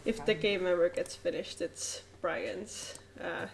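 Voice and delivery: stuffy blocked nose; talking through a blocked nose. Real, not acted. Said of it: "I can't breathe through my nose right now".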